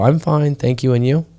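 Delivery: lightly imitated textbook reply; rote classroom English. Imitating Thai pupils' stock greeting reply, lightly recited. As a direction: recite it like a learned school phrase. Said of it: "In Thailand, they like to go".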